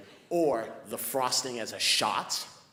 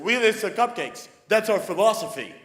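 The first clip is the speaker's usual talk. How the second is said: mock clerk; 8 semitones higher, 12 dB louder than usual. Clerk's loud quoted line.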